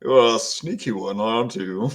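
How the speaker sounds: low, soft, lightly voiced character; quietly addressing someone just spotted, low; Borak's character voice. Borak remarks on the sneaky newcomer, in character.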